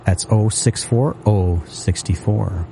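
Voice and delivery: normal talking voice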